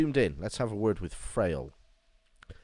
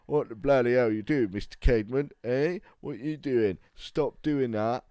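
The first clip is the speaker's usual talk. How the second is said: a raised, higher, louder indignant yell; mock outraged shout; 5 semitones higher, 4 dB louder than usual. Patient yelling at the doctor mid-experiment, mock outraged shout.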